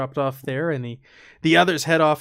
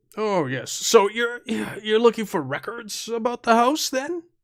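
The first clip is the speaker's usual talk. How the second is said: put-on old man voice, pitched much higher; 8 semitones higher than usual. Telling a story, voicing the librarian greeting visitors: older gentleman librarian voice. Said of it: "It's a older gentleman, and typical librarian".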